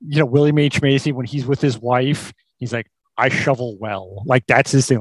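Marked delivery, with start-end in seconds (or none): 3.2-4.2 low, slow, understated boast; slow, deliberate delivery with understated pride; mock proud. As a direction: imitate a quietly proud man, weighing each word. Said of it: "he's proud of the fact".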